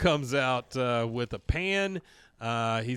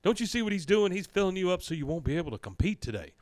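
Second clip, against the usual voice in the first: a higher-pitched imitation of indignant Hank; higher-pitched, scolding and affronted; 6 semitones higher than usual. Hank scolds Dale with a higher-pitched, affronted voice. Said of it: "He goes".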